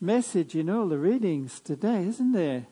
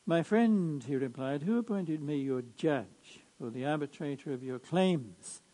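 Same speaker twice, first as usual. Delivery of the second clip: measured liturgical reading voice; Gospel proclamation. Acted.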